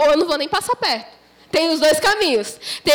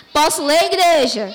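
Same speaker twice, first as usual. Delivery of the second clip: calling out; 3 dB louder than usual. Real, not acted. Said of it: "A igreja não falou amém direito".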